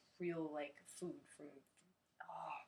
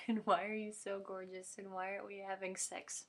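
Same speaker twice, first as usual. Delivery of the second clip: raised, louder mock-exasperated plea; loud mock demand; 3 semitones higher, 8 dB louder than usual. Vlogger to an admired person, loud mock demand.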